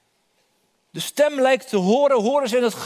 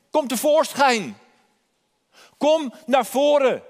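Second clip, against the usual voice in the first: higher, slow calling out to the congregation; inviting call; 4 semitones higher, slower than usual. Acted. Preacher voices Jesus calling listeners. (hoger en langzaam roepend, de gemeente uitnodigend)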